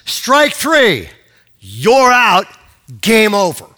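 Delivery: loud, high umpire verdict; umpire's call. Retold or imitated. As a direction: bellow each call, pausing between them. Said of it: "The umpire says".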